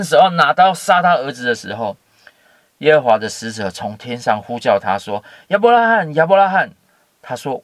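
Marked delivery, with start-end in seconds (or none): 5.5-6.7 high, loud call across a distance; urgent heavenly call to stop him. Acted. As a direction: call his name down from the sky, twice. Angel calls from heaven.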